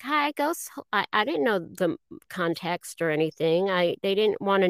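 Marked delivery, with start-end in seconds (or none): 0.0-0.7 higher, plain receptionist greeting; first audition voice. Retold or imitated. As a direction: answer the phone flatly, no accent. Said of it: "I didn't get it talking like the Janine we know".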